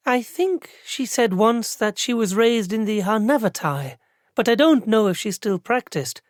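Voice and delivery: put-on young clerk recalling what she half-remembers; lightly voiced unsure clerk. A narrator's reading. Clerk answers thoughtfully.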